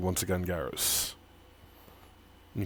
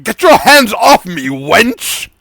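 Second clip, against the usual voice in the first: loud, higher angry order; angry snap; 11 semitones higher, 9 dB louder, slower than usual. Acted. Tiefling angrily snapping at Amari for shaking him. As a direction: shove her off with your voice. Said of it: "Amari goes".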